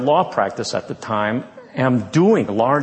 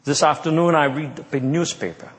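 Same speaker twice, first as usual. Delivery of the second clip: lightly imitated Argentinian Spanish accent; a slight, badly imitated Argentinian accent. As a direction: attempt a mild Argentinian accent. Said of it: "in his Spanish, Argentinian accent".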